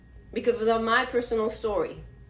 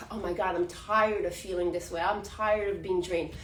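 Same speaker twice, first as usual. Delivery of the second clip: weary sigh; 4 semitones lower, 4 dB quieter than usual. Retold or imitated. Voicing tired empaths.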